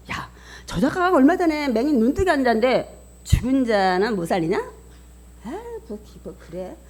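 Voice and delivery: mock scoffing of onlookers; acted jeering. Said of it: "이러고 막 비아냥거리는 거". (비아냥거리는 구경꾼 흉내)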